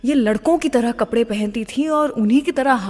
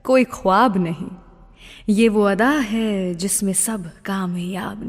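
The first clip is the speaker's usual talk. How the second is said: shayari recitation. Acted. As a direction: recite the couplets tenderly, letting the ends drop away. Host recites shayari over music. (शायरी के अंदाज़ में धीमी, नरम अदायगी)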